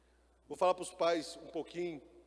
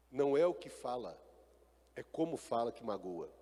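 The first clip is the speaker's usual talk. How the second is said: gentle fatherly advice; 4 semitones lower than usual. Retold or imitated. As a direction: coax the son kindly, like a caring father. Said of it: "fala assim".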